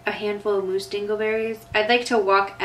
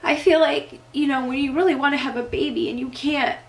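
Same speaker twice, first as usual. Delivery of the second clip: high, teary voice fighting back sobs; crying through a laugh; 5 semitones higher than usual. Real, not acted. Vlogger to viewers, welling up with real tears. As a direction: laugh through real tears while talking about friends. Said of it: "makes me cry".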